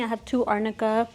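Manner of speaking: pills under the tongue; tablet under tongue. Real, not acted. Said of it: "Sorry, I'm talking funny".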